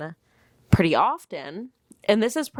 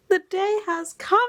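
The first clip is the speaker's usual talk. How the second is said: even higher, mock old-English proclamation; mock herald; 12 semitones higher than usual. To viewers, hammed-up herald with "cometh". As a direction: ham up "cometh" like a town crier.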